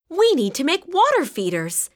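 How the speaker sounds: high, eager idea; excited exclaim. A narrator's reading. Violet to Sam with a new idea, eager exclaim. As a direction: Violet bursting with a plan, pitch up high. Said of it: "exclaimed Violet".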